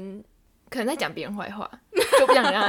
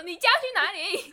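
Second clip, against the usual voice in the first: higher, louder teasing 你今天要去哪里; mock loud question; 10 semitones higher than usual. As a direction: tease her by blasting the question. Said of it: "你就很大声说".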